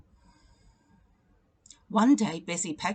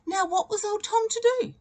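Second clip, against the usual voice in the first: dramatic question; 4 dB louder than usual. A narrator's reading.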